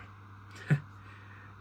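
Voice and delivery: brief, breathy character chuckle; short laugh. A narrator's reading. Sharp answers the maid's teasing, short laugh. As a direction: give a small, voiceless huff of laughter. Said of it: "He laughed".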